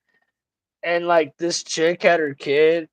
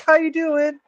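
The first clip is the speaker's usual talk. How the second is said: non-threatening voice; 11 semitones higher than usual. Retold or imitated. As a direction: make it sound harmless and sweet. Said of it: "like a real non-threatening voice".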